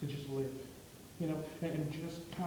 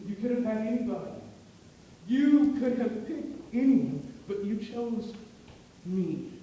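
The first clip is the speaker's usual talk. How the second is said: awed gratitude; 3 semitones higher, 5 dB louder, slower than usual. Retold or imitated. Allie tells the groomsman he chose her, awed. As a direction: pour out disbelief that he chose her.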